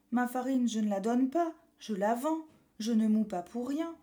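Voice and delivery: a lightly voiced loud miller. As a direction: answer like a proud miller. Miller refuses to give.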